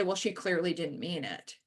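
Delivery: low, soft dismissive man's voice; lightly voiced defending man. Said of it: "and say".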